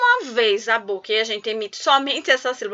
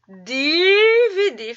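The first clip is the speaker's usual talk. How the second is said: stretched out; 5 semitones higher, 3 dB louder, much slower than usual. Shown as a demonstration. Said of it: "teacher stressing key word".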